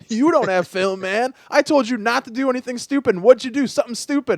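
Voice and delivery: retold coach's scolding. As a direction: act out a coach chewing out a player. Coach scolds player in retold quarrel.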